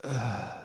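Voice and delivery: audible heavy exhale; heavy breathing. Real, not acted. Podcast host between points in a film chat, breathing heavy. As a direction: let out a soft, heavy breath. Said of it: "Breathing heavy".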